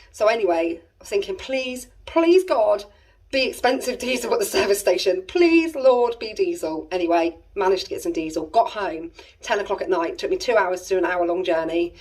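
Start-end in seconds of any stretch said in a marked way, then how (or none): 1.4-6.9 high pleading bursts on please; mock prayer. Desperate driver praying for diesel, high pleading. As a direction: beg the heavens for diesel.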